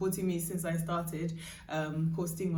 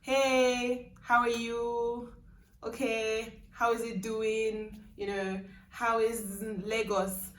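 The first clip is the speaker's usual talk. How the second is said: neutral Nigerian accent; slower than usual. Shown as a demonstration. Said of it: "I would probably sound something like".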